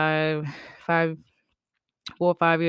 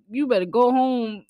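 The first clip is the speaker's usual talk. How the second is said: a scolding uncle, higher and louder; stern uncle; 7 semitones higher, 7 dB louder than usual. Retold or imitated. Uncle scolding a misbehaving child, sharp and loud. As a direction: snap it like a stern uncle sending a kid off.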